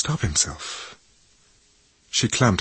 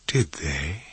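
whispered; 3 semitones lower, 5 dB quieter than usual. Acted. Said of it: "she whispered".

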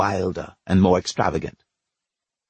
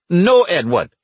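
pained shout, higher and louder; 9 semitones higher, 5 dB louder, slower than usual. Acted. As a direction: cry out under each stroke of the whip. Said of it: "Boy shouted".

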